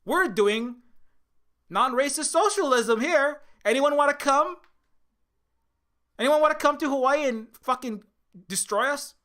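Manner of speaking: high, loud, sing-song call to the world; hammed-up welcome, high and loud; mock cheerful invitation. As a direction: chirp it out like a naive host. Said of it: "Hawaii didn't come out and say".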